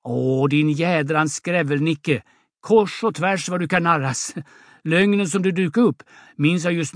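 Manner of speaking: understated indignant outburst. Acted. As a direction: exclaim in indignant disbelief. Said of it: "Till sist utbrister hon".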